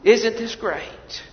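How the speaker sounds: sarcastic cowboy whoop; mock cheer.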